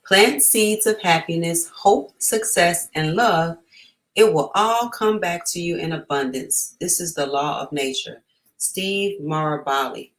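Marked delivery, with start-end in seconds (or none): 0.0-8.2 uplifting quote. Acted. Reading an inspiring quote aloud.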